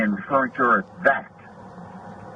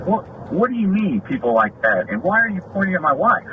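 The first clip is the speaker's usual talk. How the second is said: indignant disbelief; 6 semitones higher than usual. Retold or imitated. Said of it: "and I'm like, 'Oh".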